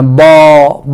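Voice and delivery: put-on a baby's broken first syllable, ba; toddler babble. Shown as a demonstration. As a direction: babble it like a toddler trying to say baba. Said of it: "বাবা বলতে পারে না".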